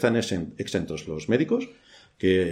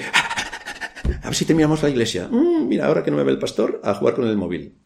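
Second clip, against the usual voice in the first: phone addict; 3 semitones higher than usual. Acted. Addicted churchgoer itching to play on the phone, mock impatience. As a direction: play someone sneaking off to their phone.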